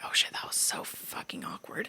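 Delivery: hushed gossip whisper. Retold or imitated. Whispering gossip in friend's room, hushed. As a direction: whisper it behind her back. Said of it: "we're, like, whispering".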